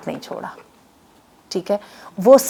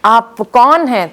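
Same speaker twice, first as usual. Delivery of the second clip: retold surprise. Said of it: "بڑی حیران ہوئی".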